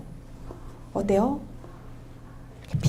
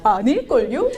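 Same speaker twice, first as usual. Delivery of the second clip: put-on giggling kid doubting his mom; cheeky kid laughing; 7 semitones higher than usual. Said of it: "막 이래요".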